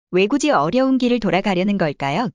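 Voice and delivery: normal talking voice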